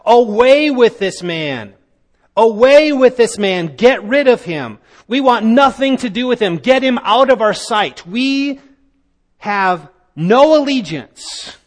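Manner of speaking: voicing the crowd's demand with moderate force; crowd crying out. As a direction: call it out like an angry crowd. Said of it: "this is the crowd crying out".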